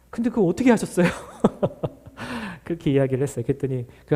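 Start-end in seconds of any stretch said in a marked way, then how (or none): 0.1-2.6 laughing. Retold or imitated. Retelling reply to parent, laughing.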